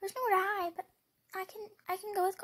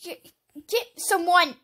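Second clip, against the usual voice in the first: urgent call; 9 dB louder than usual. Real, not acted. Urgent calling.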